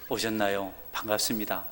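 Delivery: quiet, soft, respectful welcome; polite greeting. Shown as a demonstration. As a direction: welcome a newcomer gently. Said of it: "이렇게 하시면".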